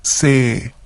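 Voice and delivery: Se held long, a drawn-out final e sound; lengthened final vowel. Shown as a demonstration. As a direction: stretch the vowel in Se. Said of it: "Notice that we have a long vowel at the end".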